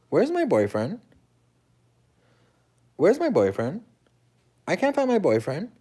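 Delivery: high, anxious calling out; panicked where-is-he; frantic searching. Retold or imitated. Girlfriend searching the club, high and panicked.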